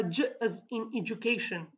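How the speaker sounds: "j" as the soft dge sound in "education". Shown as a demonstration. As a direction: voice "j" like the middle of "education". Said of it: "how can you pronounce".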